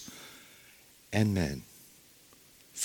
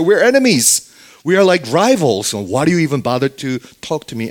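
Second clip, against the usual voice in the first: a touch of hurt indignation, voiced higher; bitter Samaritan woman; 5 semitones higher than usual. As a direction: protest like a scorned outsider.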